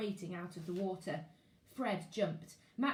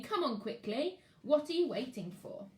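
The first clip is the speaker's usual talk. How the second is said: a touch higher, brisk urging; lightly voiced explorer; 4 semitones higher than usual. Explorer calling the children into the lake, brisk urging. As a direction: hurry them into the water.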